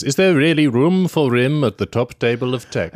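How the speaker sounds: slow, measured verse reading; teasingly grand, Shakespearean-style quote; mock poetry recital. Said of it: "this is pure poetry".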